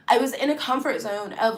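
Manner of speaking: usual speaking voice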